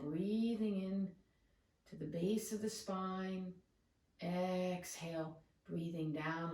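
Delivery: calm, measured meditation guide, long pauses between cues; soothing yoga-teacher meditation voice; guided meditation. Real, not acted. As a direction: guide them into the breath, unhurried.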